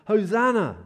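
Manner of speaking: high, loud cry of praise; ringing out a public acclamation; shouted acclamation. Acted. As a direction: proclaim it like a jubilant crowd. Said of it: "those who followed shouted".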